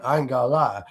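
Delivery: lightly put-on black American accent, drawled; a light black American accent on the phrase; American accent demo. Shown as a demonstration. Showing a friend online his black American accent. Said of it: "my American accent".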